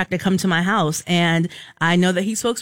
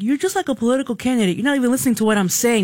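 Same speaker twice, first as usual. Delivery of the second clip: quick, higher-pitched mild complaint; retold exasperation; 4 semitones higher, faster than usual. Caller talking to the broadcaster, mildly exasperated. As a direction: lightly imitate a fed-up caller, rattling it off.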